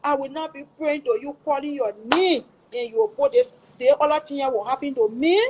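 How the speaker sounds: retold protest in prayer; retold tearful prayer. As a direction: plead upward, reliving a desperate prayer. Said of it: "I start crying, I start praying".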